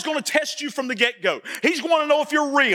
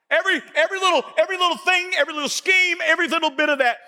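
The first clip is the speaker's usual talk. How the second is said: preaching crescendo; 4 semitones higher, faster than usual. Real, not acted. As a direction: build each "every little" into a preacher's shout. Preacher building to climax.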